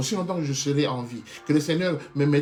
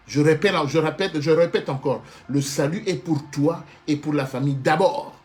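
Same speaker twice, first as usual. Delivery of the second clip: emphatic insistence; 5 dB louder than usual. Acted. Preacher insists on his key point.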